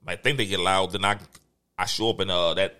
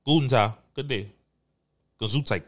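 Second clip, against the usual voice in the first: mock German. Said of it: "my first language was German".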